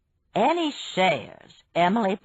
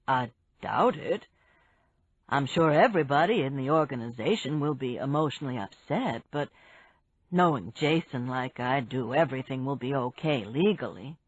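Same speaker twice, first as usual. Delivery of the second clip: lightly voiced man; 5 semitones lower than usual. Barry voiced by narrator.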